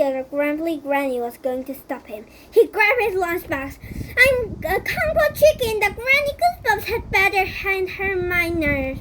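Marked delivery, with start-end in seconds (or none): 4.2-9.0 higher, louder hero declaration; heroic resolve. Acted. Golden declaring himself Kung Fu Chicken, higher bold voice. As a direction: stand up proudly.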